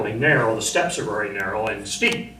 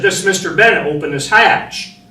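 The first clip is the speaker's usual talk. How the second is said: louder, higher firm order; officer's command; 6 semitones higher, 6 dB louder than usual. Retold or imitated. Division officer pounding on hatch, loud firm command. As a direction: bark the order through the hatch.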